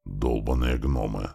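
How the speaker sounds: low, slow grumbled curse; understated acted swearing; cursing. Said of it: "снова выругался Слива".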